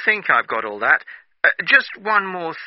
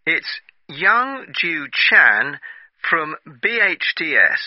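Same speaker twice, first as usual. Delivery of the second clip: slow read-back; 3 semitones lower, slower than usual. Shown as a demonstration. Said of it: "let me read that back to you".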